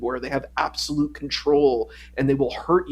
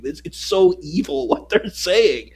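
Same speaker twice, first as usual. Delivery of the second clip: disgusted laugh; 6 semitones higher, 6 dB louder than usual. Retold or imitated. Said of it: "I'm like".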